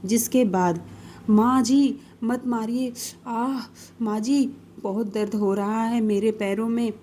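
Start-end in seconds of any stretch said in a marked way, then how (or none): 1.3-6.9 crying out in pain, begging her to stop; a daughter-in-law begging through the hurt; pained pleading. Acted. Daughter-in-law pleads with her stick-wielding mother-in-law, pained begging.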